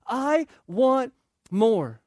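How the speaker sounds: slow drawn-out want; a touch of whining; mild whine. Retold or imitated. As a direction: stretch it like a spoiled child. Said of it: "Say that with a whiny voice".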